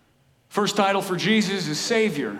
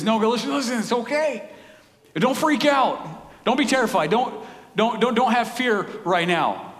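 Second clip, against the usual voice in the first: higher, urgent plea not to fear; calm the terrified shepherds, pleading; angel reassuring; 6 semitones higher than usual. Retold or imitated. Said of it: "And he says".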